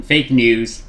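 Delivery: burp while talking; words broken by a burp. Real, not acted. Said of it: "excuse me, I'm burping".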